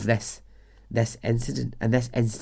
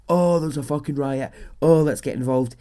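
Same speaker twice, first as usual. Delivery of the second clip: slightly higher, imitating eager young rioters; mock excitement; 4 semitones higher than usual. Young prisoners caught up in the riot, imitated excitement. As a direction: play at getting swept up in it. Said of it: "caught up in the initial excitement".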